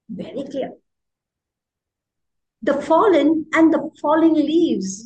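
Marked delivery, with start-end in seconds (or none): 2.6-5.0 higher, louder poem reading; haiku recitation. Shown as a demonstration. Teacher reciting a haiku line to students, lifted voice. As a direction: recite it out clearly, lifted and projected.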